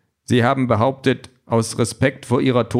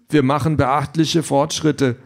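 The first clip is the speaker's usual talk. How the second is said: higher-pitched voice for the trainer; Trainer im Roman; 4 semitones higher, slower than usual. Acted. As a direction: play the coach, pitched up. (Trainerstimme, höher gesprochen)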